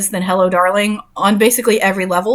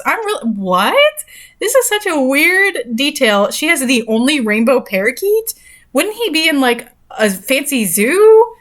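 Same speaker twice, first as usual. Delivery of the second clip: baffled disbelief; 4 semitones higher, slower than usual. Real, not acted. Mocking the absurd detail.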